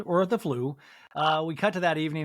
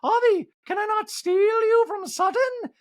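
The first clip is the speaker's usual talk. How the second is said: very high, loud coaxing voice; high pleading flirt; Dorit impression; 5 dB louder than usual. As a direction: wheedle in a high falsetto. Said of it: "Dorit is like".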